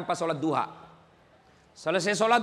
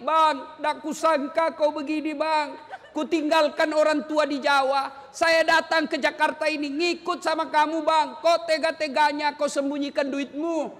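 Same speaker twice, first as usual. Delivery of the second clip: mild complaining wife; 4 semitones higher than usual. Acted. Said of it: "Boleh marah seperti itu".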